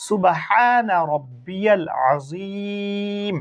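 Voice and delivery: slow, measured chant of the ruku praise; slow prayer recitation. Shown as a demonstration. Teacher recites the ruku tasbih for pupils, slow and chanted. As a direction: intone it evenly, stretching each word. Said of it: "রুকুর তাসবিহ।".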